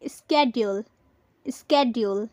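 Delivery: "schedule" as iss-KED-yool, with a d-y; wrong pronunciation. Shown as a demonstration. Teacher quizzing learners with the wrong form, "schedule" as iss-KED-yool. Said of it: "schedule गलत होगा".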